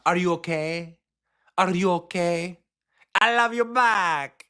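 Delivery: slow, pushed Latina-accent impression; Latina accent put on. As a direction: exaggerate a Latina accent to mock a politician. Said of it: "so close to doing the accent".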